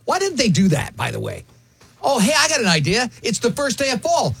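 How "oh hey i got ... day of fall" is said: excited rant. Real, not acted. Ranting about clock change.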